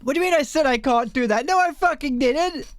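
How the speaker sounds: fast, rising indignant protest; defensive outburst, pitch jumping on no; indignant denial. Real, not acted. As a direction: push back hard against the accusation. Arguing with chat, indignant.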